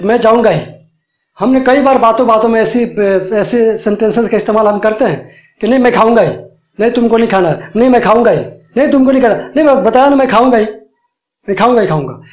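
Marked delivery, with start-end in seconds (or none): 0.0-0.7 जाऊँगा hit hard, falling; firm demo, जाऊँगा ही stressed; emphatic stress. Shown as a demonstration. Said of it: "ये हम जोर दे के बोल रहे हैं". 5.7-12.2 insisting back and forth, मैं stressed; playful quarrel, each line leaned on; a light acted squabble over eating; mild mock argument. Shown as a demonstration. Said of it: "इस तरह का हम बोलते हैं जोर देकर".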